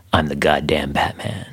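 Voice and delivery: lightly gruff Batman impression; a hint of the brooding hero. Quoting All-Star Batman.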